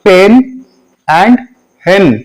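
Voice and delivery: पेन, hen with a short "eh". Shown as a demonstration. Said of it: "short sound में हो जाएगा". (छोटा ए)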